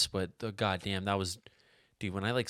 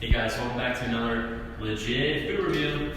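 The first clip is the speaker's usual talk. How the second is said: vlogger intro. Acted. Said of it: "put that video up".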